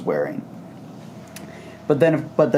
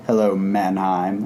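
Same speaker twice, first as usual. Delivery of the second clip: low, slow, unenthused greeting; deadpan, weary villain hello; unimpressed Destro; 4 semitones lower, slower than usual. Acted. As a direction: greet him slowly with a grumpy lack of interest. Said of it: "who's just like, "Meh".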